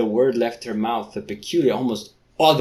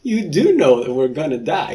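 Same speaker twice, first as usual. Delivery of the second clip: mock blunt; 4 semitones higher, 5 dB louder than usual. Mock retake.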